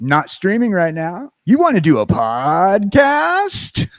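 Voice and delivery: high, slow mock-eager ask; high wheedling invitation at midnight; pestering himself. Host mimics himself nagging his friend late at night, high wheedling. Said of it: "It's like".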